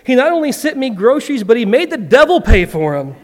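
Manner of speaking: high, jubilant, rushing cry; excited praise. Acted. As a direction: bounce with joy on the words. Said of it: "jumping up and down and clapping".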